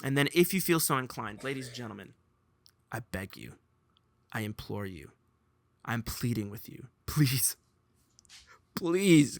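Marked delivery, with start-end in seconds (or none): 1.4-9.4 mock pleading. Mock begging the audience.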